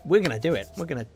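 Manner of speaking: talking through hiccups; hiccuping between words. Real, not acted. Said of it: "My hiccups have come back".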